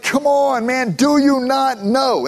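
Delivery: urging the listeners; Paul pleading, fired up; exasperated plea. Acted. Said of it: "He's like".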